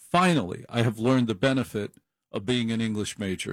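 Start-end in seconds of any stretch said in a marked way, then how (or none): 0.1-0.6 excited exclamation. Real, not acted. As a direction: cry out in mock triumph. Finally monetizing English degree.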